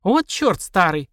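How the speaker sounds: slow exasperated swearing; cursing. Acted. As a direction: spit it out in annoyance. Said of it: "выругалась Магиня".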